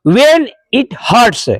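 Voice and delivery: WHEN IT HURTS drawn out word by word; slow recitation. Shown as a demonstration. Teacher restates today's thought for pupils, slow recitation. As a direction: stretch each word of the phrase slowly.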